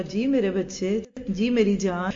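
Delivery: loving reply. Retold or imitated. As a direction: melt a little as you answer. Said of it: "اور پیار سے بولے".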